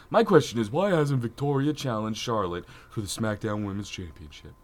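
lightly voiced annoying chick. Co-host reading a fan's wrestling question, mock chick voice. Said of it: "In your best annoying chick voice".

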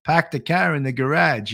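lightly mock Boston listeners praising the accent. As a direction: pahk the cah, Boston style. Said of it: "Boston accent".

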